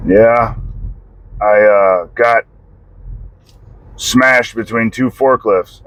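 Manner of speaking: dad's halting, even-toned admission; monotone. Retold or imitated. Dad explaining his accident to his son, halting monotone. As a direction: understate it, with long pauses between phrases. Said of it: "Just monotone voice".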